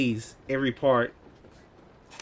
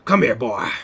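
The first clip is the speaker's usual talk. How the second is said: mock Southern accent; 3 semitones lower, 7 dB louder than usual. Mimicking gamers in a shooter lobby, fake Southern accent. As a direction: imitate a gamer faking Southern, loud. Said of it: "pretend to have a Southern accent".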